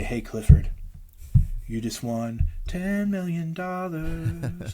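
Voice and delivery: mock announcement. Mock announcer telling Clifford he won millions. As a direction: announce the prize like a big reveal. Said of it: "come out and say".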